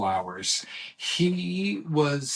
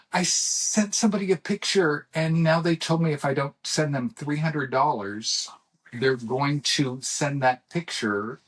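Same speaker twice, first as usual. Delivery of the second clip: panicked son; 3 semitones higher than usual. Retold or imitated.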